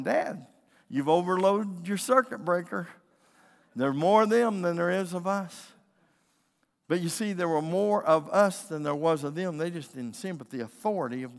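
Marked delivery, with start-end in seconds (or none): 0.0-5.7 put-on raised, loud warning from a worried boy; quaking son. Scared son warns dad they are outnumbered, acted urgent protest. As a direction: imitate a child pleading urgently with dad. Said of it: "he's quaking".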